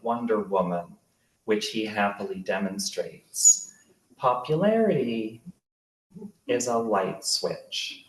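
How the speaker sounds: measured literary narration with deliberate pauses; memoir reading. A narrator's reading. Author reads childhood memoir about Darren, measured narration. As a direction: read it out to a live audience, phrase by phrase.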